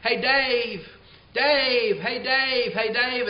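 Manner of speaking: calling up across the ballpark, a mild mock yell. Fan in the upper deck calling to the man below, mock yell. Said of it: "somebody's yelling out from the second story".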